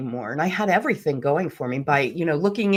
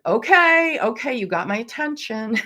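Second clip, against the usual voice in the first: startled awe; 6 semitones higher than usual. Retold or imitated. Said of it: "I was like".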